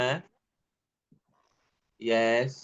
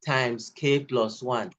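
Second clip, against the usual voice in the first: slow dictation; much slower than usual. Shown as a demonstration. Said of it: "This time you will have names K".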